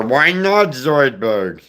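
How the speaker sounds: throaty cartoon creature with a Jewish accent; Zoidberg. Shown as a demonstration. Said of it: "and you got Zoidberg".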